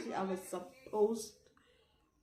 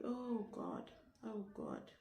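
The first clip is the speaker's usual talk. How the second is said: hushed dismay; 2 semitones higher, 9 dB quieter, slower than usual. Retold or imitated. Quiet teacher, reaction under the breath.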